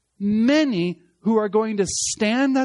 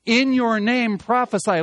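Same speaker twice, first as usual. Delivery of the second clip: "In your name" raised and emphatic, up front; stress on "In your name"; 4 semitones higher, 4 dB louder than usual. Shown as a demonstration. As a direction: hit "In your name" high before "prophesy". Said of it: "That's actually reversed".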